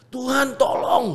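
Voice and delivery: high, soft, pleading plea to God; a quiet, high-pitched "Tuhan, tolong" like a prayer under his breath; retold inner cry. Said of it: "gue udah teriak kayak gitu".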